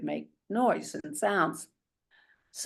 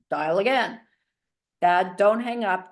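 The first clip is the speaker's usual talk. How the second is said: louder, raised call down the phone; retold yelling; 3 semitones higher, 5 dB louder than usual. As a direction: call out so Dad can hear. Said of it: "And I'm yelling, like, screaming".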